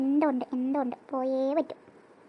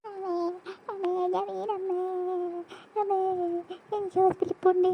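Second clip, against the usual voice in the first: wailing. Acted. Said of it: "കീറി തുടങ്ങി".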